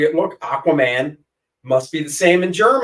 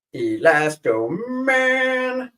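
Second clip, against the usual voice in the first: announcer voice; 10 semitones higher, much slower than usual. Pretend. Drawn-out name announced.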